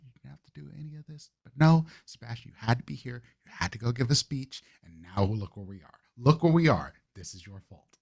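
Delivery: Sebastian blaming himself, voice sinking to near murmurs; Sebastian in anguish. Acted. Sebastian blames himself for the explosion, bitter self-reproach.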